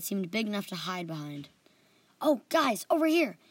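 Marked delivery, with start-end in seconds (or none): 2.2-3.4 higher, louder call to friends. A narrator's reading. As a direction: call them over across the room. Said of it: "I called to them".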